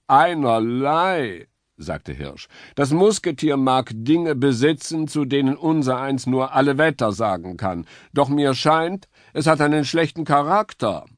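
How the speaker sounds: lightly voiced noble deer; earnest stag. A narrator's reading. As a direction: play the dignified stag. Stag voice, dismissive.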